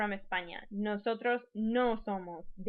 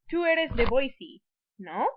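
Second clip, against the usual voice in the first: louder, slower statement, then "no" lifted as a question; tag question; 4 semitones higher, 8 dB louder than usual. Shown as a demonstration. Teacher shows confirming information, questioning tag. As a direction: state it, then check with a rising "no". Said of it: "trying to confirm whether or not".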